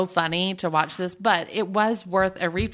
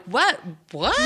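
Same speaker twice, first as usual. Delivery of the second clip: shocked what. Retold or imitated. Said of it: "I was like".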